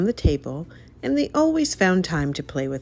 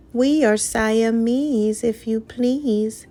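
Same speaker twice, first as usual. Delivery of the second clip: high, slow sly cat duet; slow, sinister cats singing their warning; hissing Siamese cats; 7 semitones higher, slower than usual. A narrator's reading. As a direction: drawl it out like two scheming cats. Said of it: "they hissed".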